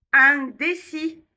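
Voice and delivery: "Indécis" slow, opening on nasal IN. Shown as a demonstration. Teacher models nasal vowels, "Indécis" with stretched nasal IN. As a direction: open "Indécis" through the nose, stretched out. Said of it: "Et les voyelles nasales".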